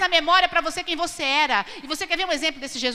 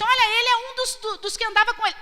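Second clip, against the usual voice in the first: put-on accusing servant girl; 9 semitones higher, 4 dB louder, faster than usual. Accuser voiced in retelling.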